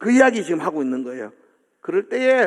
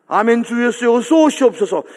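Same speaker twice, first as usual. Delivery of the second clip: 높고 힘 있게 올리는 기도; 주님을 부르듯 목소리를 높여 간구; 간절한 기도; 5 semitones higher, 5 dB louder than usual. Acted. 기도를 인용해 외침. (간절히 부르짖는 기도조)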